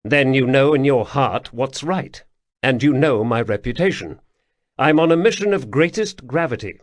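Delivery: gentler prince, persuading; the prince softening to win the old soldier over; softened tone. Acted. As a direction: ease off and appeal to him. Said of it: "Atribus softened his tone".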